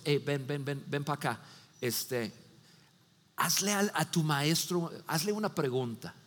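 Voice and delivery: soft, low furtive call; hushed beckon. Retold or imitated. Religious leaders quietly calling a disciple outside. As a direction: call him over under your breath.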